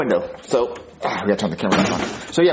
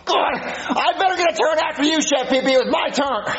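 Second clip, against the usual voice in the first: put-on whiny kid; 12 semitones higher than usual. Junior whining over stolen turn.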